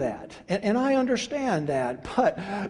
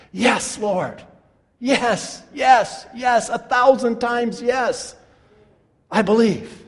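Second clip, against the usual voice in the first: stack the yeses, each one firmer; emphatic yes; 2 semitones higher, slower than usual. Retold or imitated. Martha answering Jesus, voiced by the preacher, emphatic. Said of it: "Notice what she says emphatically".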